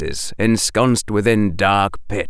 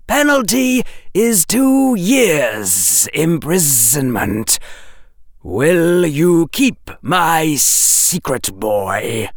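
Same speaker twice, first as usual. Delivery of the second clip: slow, higher voice of a secretive snake; hissing snake; 6 semitones higher, slower than usual. A narrator's reading. Snake hissing a secret code to Harry, slow and higher. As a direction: lay it out slowly like a serpent.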